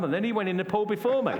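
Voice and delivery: delighted real laughter; laughing. Real, not acted. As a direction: laugh through the line. Laughing at the punchline.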